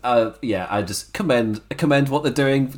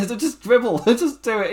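higher-pitched mock yell at the guy; mock shouting; 9 semitones higher than usual. Retelling Grimes shouting at the mark to dribble, in a mock yell. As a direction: bark the order, half-laughing. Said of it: "just shouting at him to do it".

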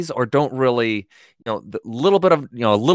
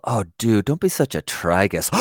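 mock insult; 4 semitones lower than usual. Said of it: "sounds like an insult".

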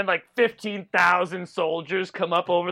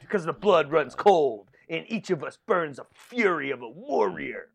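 mock movie-trailer announcer.

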